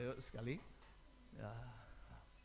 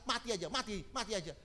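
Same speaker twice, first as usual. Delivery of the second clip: mock yell; 5 semitones higher than usual. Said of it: "ngomong teriak-teriak".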